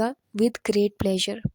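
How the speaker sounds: very slow, drawn-out model phrase; slow demo. Shown as a demonstration. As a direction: stretch each word for learners. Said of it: "اس کے لیے آپ کو کہنا پڑے گا". (بہت آہستہ مثال)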